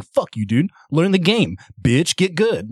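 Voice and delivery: mock trash talk from an angry player; imitating the toxic player he once was, a sneering mock taunt; toxic gamer taunt. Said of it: "I would be the toxic asshole saying".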